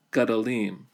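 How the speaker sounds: "gadolim" with stress moved to the final "-lim"; reduced first vowel. Shown as a demonstration. Teacher shows the accent moving in Hebrew plural, reduced vowel. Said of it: "to a vocal schwa".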